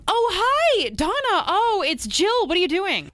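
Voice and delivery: chirpy Canadian friend on the phone, lightly done. Pretend. Host playing the Canadian friend calling her, light Canadian accent. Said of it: "act out the part of her Canadian friend".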